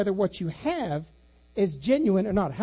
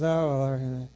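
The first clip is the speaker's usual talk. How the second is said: a sighing, lower "Oh, Lord" from a weary wife; exasperated wife; 7 semitones lower than usual. Retold or imitated. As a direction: mimic his wife giving up on him, lightly. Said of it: "Rhonda just shakes her head and goes".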